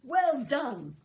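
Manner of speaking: loud, high cheering; cheering shout. A narrator's reading. Animals cheer the crow after the rescue, loud cheer. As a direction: cheer the hero home. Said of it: "clapping and shouting".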